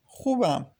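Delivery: small, lightly trembling reply. A narrator's reading. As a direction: answer as if holding back tears. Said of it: "با صدای لرزان گفت". (با صدای لرزان)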